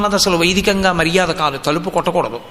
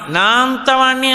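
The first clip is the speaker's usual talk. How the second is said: mock pride, higher; 5 semitones higher than usual. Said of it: "అహంకారం ఎక్కడో పొటమరించిందని".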